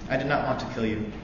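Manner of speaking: ordinary talk, nothing marked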